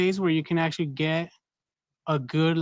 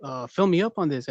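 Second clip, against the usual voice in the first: mock shocked. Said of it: "He's like".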